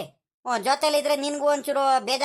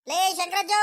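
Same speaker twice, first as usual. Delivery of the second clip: ಲೇ ಶಂಕರಜ್ಜ called out higher, stretching ಲೇ; calling out; 4 semitones higher than usual. Acted. Rangajja calls his friend from outside the house, higher call.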